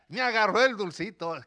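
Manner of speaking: put-on bright delighted child's cry; a hint of a boy thrilled she took it; lightly voiced overjoyed little boy; happy little boy. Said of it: "Y el niño feliz".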